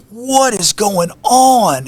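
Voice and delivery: high, slow, stunned cry; drawn-out disbelief as water sprays; shocked outcry. Retold or imitated. Alone in the flooding hotel room, crying out in shock.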